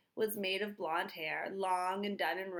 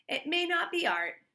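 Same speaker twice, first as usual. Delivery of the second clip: higher, louder wry verdict; Mister Dart judging; 9 semitones higher, 6 dB louder than usual. Acted. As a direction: deliver it like a critic's shrug.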